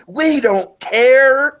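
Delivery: loud, high, drawn-out defiant cry; hammed-up dismissive shout; John Lasseter. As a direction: stretch it into a mock holler. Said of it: "this is kind of a John Lasseter, like".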